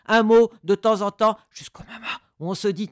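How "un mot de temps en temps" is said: much louder, higher projected voice; voice let out. Shown as a demonstration. Coach shows a word escaping the whisper, loud. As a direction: burst out of the whisper into full voice. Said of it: "comme ça".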